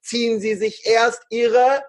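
slow, careful PA announcement; flight attendant announcement. Shown as a demonstration. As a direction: announce it like cabin crew. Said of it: "Und jetzt geht diese Ansage weiter mit".

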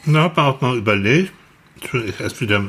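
talking with a mouth full of food. Real, not acted. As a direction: speak through a bite of food. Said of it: "ich spreche wieder mit vollem Mund".

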